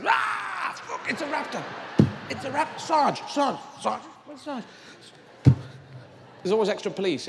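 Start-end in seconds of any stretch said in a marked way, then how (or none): 0.1-4.6 high, frantic panicking cop; panicked shout. Acted. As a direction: yell for help in a panic.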